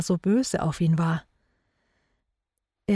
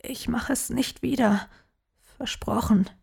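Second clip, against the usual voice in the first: put-on pleading child; 5 semitones higher than usual.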